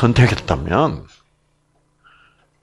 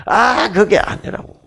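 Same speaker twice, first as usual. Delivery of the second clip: mock blunt objection; 9 semitones higher than usual. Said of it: "이렇게".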